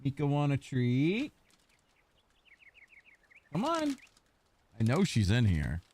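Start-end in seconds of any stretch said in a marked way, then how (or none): 0.0-4.0 softer sing-song treat offer; coaxing the dog. Real, not acted. Offering his hiding dog a treat, soft and coaxing. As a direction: lure her out gently, pitched up.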